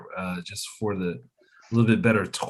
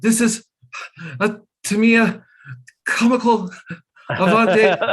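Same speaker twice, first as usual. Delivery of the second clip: excited; 13 semitones higher, 6 dB louder than usual. Retold or imitated. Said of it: "I was like".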